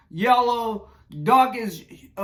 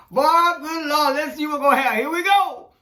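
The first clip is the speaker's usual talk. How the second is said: excited mock reaction; 5 semitones higher than usual. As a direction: play the onlookers bracing for chaos. People online reacting to news.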